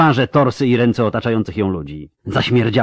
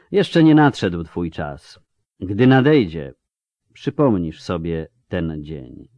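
slow, grave and matter-of-fact; matter-of-fact, stern; 3 semitones lower, slower than usual. Acted. Tissaia tells the wounded Yennefer she will live, stern and slow. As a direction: state it as plain fact, sternly. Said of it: "Głos Tisai był rzeczowy, poważny, surowy".

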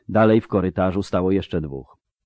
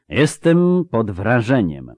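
slow, higher and sonorous, with mild composure; calm, resonant; 4 semitones higher, 5 dB louder, slower than usual. Acted. Sorcerer to the witcher who beat his thugs, calm and resonant. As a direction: say it slowly and ringingly, lightly savoured. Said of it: "powiedział spokojnie i dźwięcznie".

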